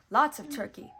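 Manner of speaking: relishing. A narrator's reading. Mickey dreaming of food.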